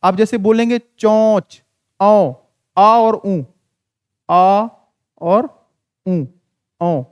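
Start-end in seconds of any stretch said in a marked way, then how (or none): 0.8-2.3 चोंच with a nasal औ, no full n; nasalized vowel. Shown as a demonstration. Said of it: "इसका उच्चारण है वो नहीं आता है". 2.8-7.0 आ and nasal ऊ separated, then blended into औ; slow teacherly breakdown of nasal औ; chandrabindu sound demo. Shown as a demonstration. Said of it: "चांद बिंदु है इसका उच्चारण क्या होता है".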